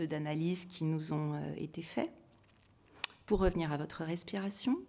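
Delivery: calm, measured relaxation guidance; guided meditation. Real, not acted. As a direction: gently lead listeners inward, softening as you go. Guides audience through closing eyes. (méditation guidée, voix calme et posée)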